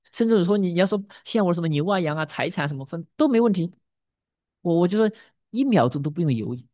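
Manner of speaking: 激动地向神质问，越说越高越响; 像被逼到绝境的父亲那样追问; 亚伯拉罕的质问. Acted. Pastor voices Abraham questioning God. (略带激动地替亚伯拉罕质问神)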